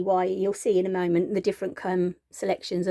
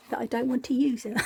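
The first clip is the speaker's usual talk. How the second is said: laughing; 4 semitones higher, faster than usual. Real, not acted. Laughs at own reluctance.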